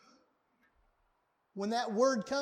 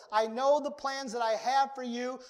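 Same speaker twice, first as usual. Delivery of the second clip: louder, emphatic declaration; formal, emphatic; 5 dB louder than usual. Retold or imitated. Preacher voicing the Lord's promise to the congregation, emphatically. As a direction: declare it firmly, as an official statement. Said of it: "the Lord states formally, emphatically".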